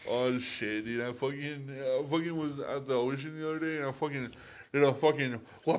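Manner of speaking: mock surfer dude; put-on laid-back California surfer talk; California surfer accent. Bragging about a day at the ocean, mock California surfer accent. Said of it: "opposite of going to California".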